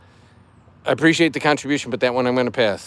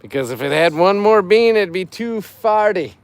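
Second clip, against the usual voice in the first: higher, louder corny punchline; dad joke voice; 5 semitones higher, 6 dB louder than usual. Acted. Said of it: "I'm doing it in dad joke voice".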